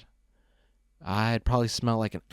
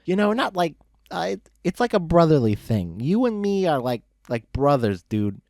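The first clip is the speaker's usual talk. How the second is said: put-on high, sloppy drunk pony voice, much higher; drunk Loose Leaf; 7 semitones higher, 6 dB louder than usual. Drunk buddy lecturing Brick on the road, high slurry drunk voice. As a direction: ramble like a happy drunk friend.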